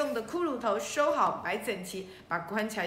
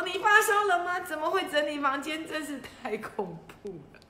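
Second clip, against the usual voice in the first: a mother's comic alarmed shriek; mock shriek; 6 semitones higher than usual. Mom shrieks at her son's tidy room, mock alarm. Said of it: "我妈就尖叫说".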